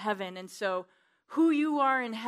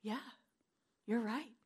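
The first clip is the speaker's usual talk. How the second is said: soft prayer; 2 semitones higher than usual. Retold or imitated. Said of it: "I would say".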